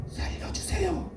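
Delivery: high, strained, drawn-out plea for help; mock drowning cry. Pastor acting someone fallen in water, strained cry for help. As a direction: cry for help with a thin, held-back voice.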